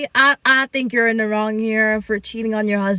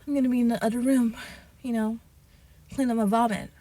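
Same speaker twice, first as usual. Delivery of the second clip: mock casual husband; 5 dB quieter, faster than usual. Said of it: "have the audacity to be like".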